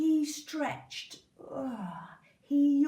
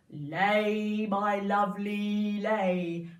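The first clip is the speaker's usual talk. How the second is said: giant voice; 3 semitones lower, 4 dB louder, much slower than usual. Acted. Giant coaxes goose.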